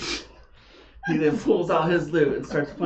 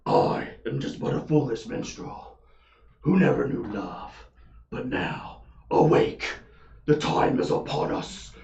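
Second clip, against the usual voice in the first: dramatic minstrel whisper; 3 semitones lower, slower than usual. Acted. Minstrel declaims his big line.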